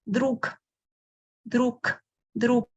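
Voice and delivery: друг ending in a voiceless k; final G as K. Shown as a demonstration. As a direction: finish друг on a dull k. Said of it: "but I pronounce K".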